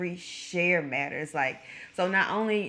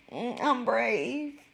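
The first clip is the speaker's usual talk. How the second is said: shaky, trembling voice, higher pitch; 5 semitones higher than usual. Claiming to be brave about jumping out of a plane: shaky voice. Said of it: "Get that shaky voice out of here".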